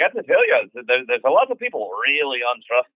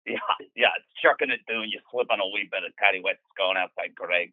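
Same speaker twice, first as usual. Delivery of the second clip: heavy Scottish brogue, rattled off; thick Scottish accent. Acted. Gregor describing life back then in a thick Scottish accent. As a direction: pile on the Scots words in a thick accent. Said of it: "This Scottish accent is so thick".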